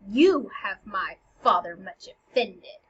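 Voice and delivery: loud, pointed retort with weight on "you"; acted sharp comeback; snapping back. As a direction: throw the accusation straight back. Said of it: "Hamlet snaps back".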